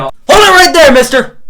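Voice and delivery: loud high cop voice "hold it". Pretend. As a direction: bark it like a cartoon cop. Playful stop-the-viewer call.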